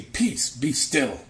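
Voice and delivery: slow, firm command; calm command. Acted. Yeshua rebuking the wind and sea, slow firm command. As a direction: still the storm with slow authority. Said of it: "rebuked the wind and said".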